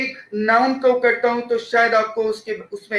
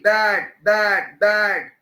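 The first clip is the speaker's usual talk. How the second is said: बैड drawn out slowly on a falling pitch; stressed बैड; 3 semitones lower, much slower than usual. Shown as a demonstration. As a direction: lean on the "B" of बैड and stretch it. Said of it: "बैड का पहला letter बी".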